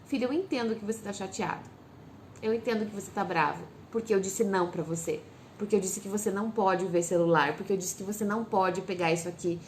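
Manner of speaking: put-on gently name the child's anger, no rush; soothing parent taking in a tantrum; calm, accepting. Shown as a demonstration. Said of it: "eu vou acolher essa frustração".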